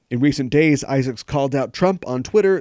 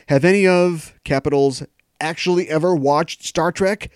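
louder, higher mocking read of the troll; mock shouting troll; 5 semitones higher, 4 dB louder than usual. Host mocking a Star Trek troll's tweet: hammed-up indignant read. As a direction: ham up the all-caps rant.

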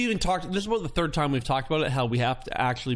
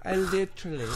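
laughing to tears; 4 semitones higher than usual. Real, not acted.

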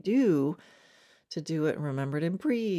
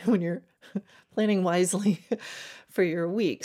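laughing through the words; chuckling while correcting herself; 2 semitones higher than usual. Real, not acted. Coach laughs at her own wording.

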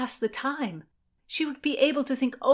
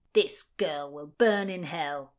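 lower, slow, disgusted; contemptuous sheriff; 4 semitones lower, slower than usual. A narrator's reading. The sheriff retches and condemns Constance, low and disgusted. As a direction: spit out the condemnation.

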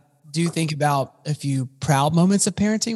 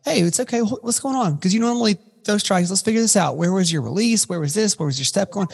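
higher-pitched, lightly acted reassuring coach; supportive coach; 5 semitones higher than usual. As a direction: play a coach gently checking in with a player. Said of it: "the right coach goes in and is like".

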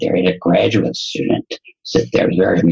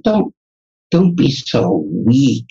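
mock scolding; 2 semitones higher, slower than usual. Doctor brushes off his student's apology, scolding. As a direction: imitate an impatient mentor telling someone off. Acting out mentor's scolding reply.

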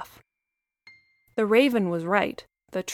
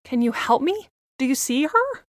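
put-on a pleading young girl asking for help; little girl voice; 3 semitones higher than usual. Lily's voice, worried child.

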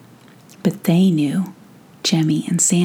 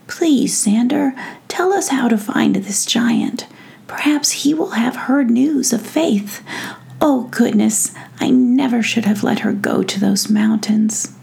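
higher, pleading royal voice; an anxious prince begging for help; worried fairy prince; 4 semitones higher than usual. Acted.

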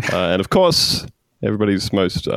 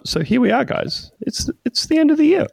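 excited. Real, not acted. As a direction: celebrate finishing the year. Triumphant end-of-year cheer.

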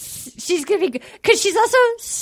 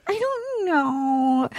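drawn-out whimpering imitation; hammed-up tearful stall; mock crying; 4 dB quieter, much slower than usual. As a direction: whine it slowly, as if tearful. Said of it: "so she's crying".

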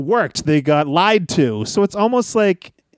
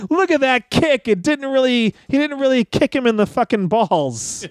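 mocking commenter; 6 semitones higher than usual.

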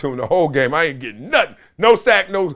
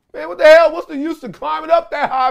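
much higher and louder, fed up; exasperated outburst; 14 semitones higher, 3 dB louder than usual. Real, not acted. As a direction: blow up in frustration.

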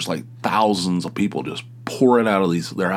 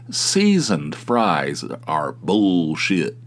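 very slow, every word weighted; drawn-out mock-solemn pronouncement; emphatic verdict; much slower than usual. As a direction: lay down the law about fries. Ranting to the waitress.

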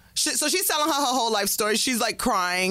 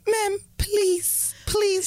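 higher pleading mock cry; imitating a masseuse begging, higher and crying; 7 semitones higher, much slower than usual. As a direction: beg in a whiny, higher pleading voice.

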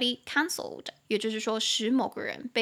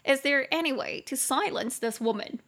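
mock complaint; 3 semitones higher than usual. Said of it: "你就可以开玩笑说".

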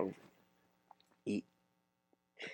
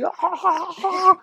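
mock gagging; slower than usual. Métete el dedo.

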